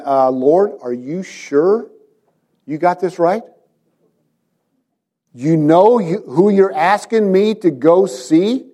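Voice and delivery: stretched-out, wary questions with rising ends; hesitant questioning. Retold or imitated. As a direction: gingerly query the boss's order. Voices Ananias questioning God's errand.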